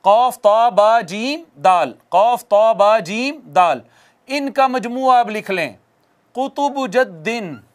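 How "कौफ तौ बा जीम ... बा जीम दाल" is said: each letter ending in a bounced echo. Shown as a demonstration. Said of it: "ये हैं हरूफ कलकला".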